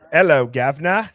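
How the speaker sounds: loud, hammed-up British greeting; mock British accent. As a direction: try a jokey British accent, badly faked. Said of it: "Can you do a British accent?".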